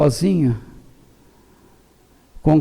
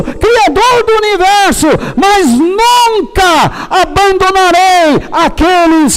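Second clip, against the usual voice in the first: high, full-force preaching shout; impassioned ranting; 11 semitones higher, 5 dB louder than usual. Real, not acted. Preacher delivering God's message to the congregation, impassioned shouting. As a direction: thunder it out, drawing out key words. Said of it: "Depois de uns bravejamentos desse".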